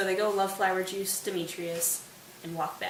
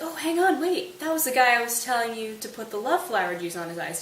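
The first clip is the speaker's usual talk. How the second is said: acted double-take, jumping up in pitch; sudden realisation; 4 semitones higher than usual. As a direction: interrupt yourself in mild alarm. Oberon suddenly spots the mistake.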